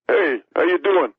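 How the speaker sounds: mock-hearty "how you doing"; catchphrase greeting. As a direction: lightly act out a jokey hello. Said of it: "I'm gonna start saying".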